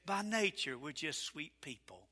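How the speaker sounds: soft, sugary TV-preacher tone; mocking the TV preachers, soft and sugary; mock syrupy preacher. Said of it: "they would have said".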